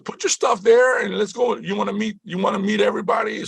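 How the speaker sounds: put-on high, girly assistant voice; imitated white girl. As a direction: mimic an eager helper in falsetto. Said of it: "This white girl comes over and she".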